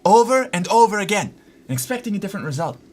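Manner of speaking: a hint of a movie villain's insanity speech; quoting villain speech. Streamer to a viewer named Brody, mock villain monologue. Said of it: "have I ever told you the definition".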